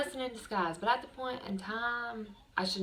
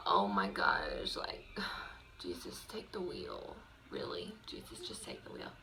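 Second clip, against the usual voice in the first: nervous prayer; 12 semitones lower than usual. Retold or imitated. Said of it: "So I was, like, nervous".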